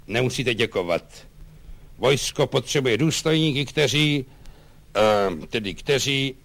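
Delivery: lightly voiced official commander; pompous colonel passing judgement. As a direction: announce a decision importantly, then lose the thread. Colonel announces the transfer.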